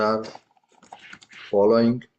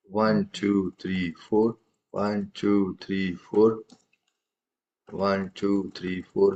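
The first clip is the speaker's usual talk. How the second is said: even steady count, one to four, slightly lower; counting the beat in fours; 3 semitones lower, 4 dB quieter, much slower than usual. Shown as a demonstration. Tabla teacher showing students a four-beat count. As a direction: tap out a simple four-beat cycle by voice. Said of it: "what rhythm you are having".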